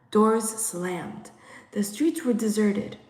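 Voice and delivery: ordinary delivery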